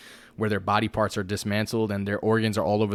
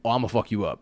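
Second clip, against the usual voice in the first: threatening warning; 4 dB louder than usual. Retold or imitated. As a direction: lay down the law to another country. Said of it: "We could tell another country".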